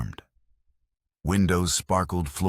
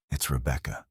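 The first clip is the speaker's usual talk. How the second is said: calm; 3 semitones lower, 4 dB quieter than usual. A narrator's reading. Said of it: "she said calmly".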